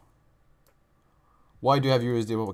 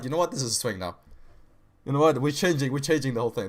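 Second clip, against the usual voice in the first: reckless excitement; 3 semitones higher than usual. Retold or imitated. Reckless self retold in excitement.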